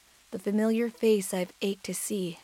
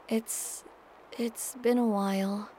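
shaky; slower than usual. Acted. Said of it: "I continue shakily".

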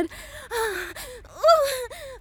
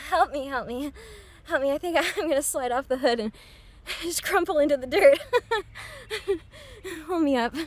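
laughing; 4 dB quieter, much faster than usual. Acted. Laughing, legs giving out.

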